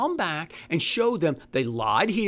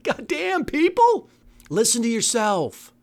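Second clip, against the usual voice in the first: exasperated outburst; 4 semitones higher than usual. Real, not acted.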